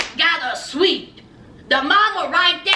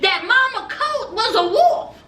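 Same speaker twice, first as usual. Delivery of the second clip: higher, suspicious inner voice, lightly voiced; lightly voiced Jess, higher and wary; Jess's inner thoughts; 4 semitones higher than usual. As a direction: muse to yourself, half convinced the mother is a wolf. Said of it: "she sat back thinking that".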